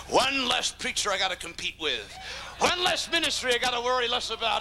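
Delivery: laughing, smug rival; gloating laugh. Acted. Rival preacher laughing at a fallen colleague. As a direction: chuckle through the gloat. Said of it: "You circle around and say".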